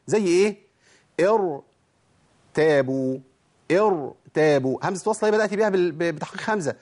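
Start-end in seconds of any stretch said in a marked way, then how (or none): 1.2-4.8 "ارتابوا" recited slowly with a full, heavy ر. Shown as a demonstration. Teacher shows students an initial ra after hamzat wasl, "ارتابوا" with heavy ر. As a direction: draw out "ارتابوا", thickening the ر. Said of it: "فخمها على طول".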